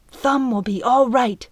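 a touch of a cracked voice, trying to sound sure; cracked reassurance. Acted. Piper reassures Zonk about Thumb, a touch of a cracked voice. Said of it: "hoped her cracked voice sounded convincing".

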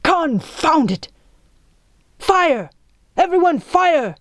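high, loud battle cry; frantic shouted order. A narrator's reading. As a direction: shout the command to the whole crew. Captain frantically orders crew to shoot.

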